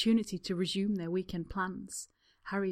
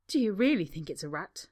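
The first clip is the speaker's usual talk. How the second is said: wobbly voice; 5 dB louder than usual. Acted. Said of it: "a wobble in his voice".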